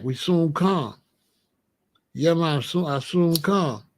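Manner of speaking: light Rasta patois lilt; lightly put-on Rasta speech; Rasta talk. Shown as a demonstration. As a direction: say it with a hint of Rasta accent. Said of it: "I can talk that way too".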